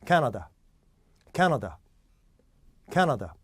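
캐나다 with strong first syllable, the rest reduced to blurred schwas; native-like stress. Shown as a demonstration. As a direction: hit 캐, swallow 나다 like "nuh-duh". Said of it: "그 발음해 보겠습니다".

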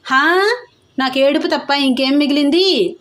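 high, whining lament; self-pitying wail. A narrator's reading. Vishalakshi complaining to the family, self-pitying wail. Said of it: "అంది విశాలాక్షి".

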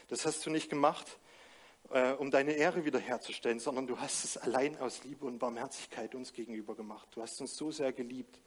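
earnest, softening congregational prayer; spoken prayer. Acted. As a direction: pray to the Father for the congregation. Pastor leads closing prayer.

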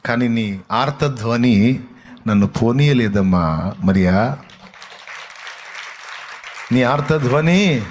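drawn-out, weighty words; slow, heartfelt address. Acted. Jesus answers weeping Mary, slow and heartfelt. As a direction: stretch each word out with deep feeling.

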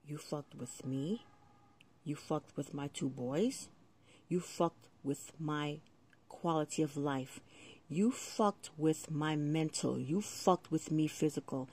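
slow, deliberate, controlled anger; menacing grievance. Real, not acted. Resident listing wrongs done by the housing authority, menacing. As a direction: count off each wrong slowly.

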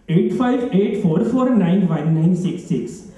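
digits spaced out slowly; slow dictation. Acted. Caller gives phone number to voice system, slow and deliberate.

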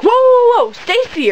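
mock alarmed intervention. Imitating a sister reining in the angry mom, high and urgent. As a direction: imitate someone cutting in to halt a fight. Sister steps in to stop her.

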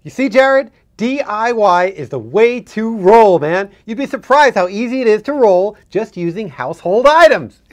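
loud, high, slow stoner drawl; stoner bro voice. Acted. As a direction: ham up the chill bro. Stoner guest hamming it up.

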